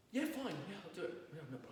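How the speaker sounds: a reluctant, forced yes that fades away; grudging agreement. Retold or imitated. Rabbi playing a squeezed person agreeing to a request, mock grudging yes. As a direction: agree through clenched reluctance, trailing off. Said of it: "you can sense the body language, tone of voice, and that I'm struggling".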